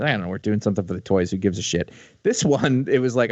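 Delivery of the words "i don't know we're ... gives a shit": dismissive. Retold or imitated. Imitating a careless cartoon writer.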